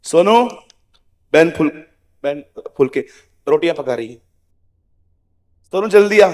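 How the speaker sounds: calling out across house. Retold or imitated. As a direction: call the boy from the kitchen. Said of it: "वो इधर खड़ी होगी kitchen में". (रसोई से बच्चे को ज़ोर से पुकारना)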